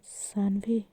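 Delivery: a soft, tender call of her name; softly calling Sanvi; lovingly. Acted. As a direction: say her name with love, gently. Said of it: "Natasha प्यार से कहती है".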